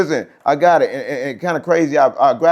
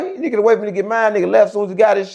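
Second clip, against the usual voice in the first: heated complaint; 7 semitones higher, 3 dB louder, faster than usual. Real, not acted.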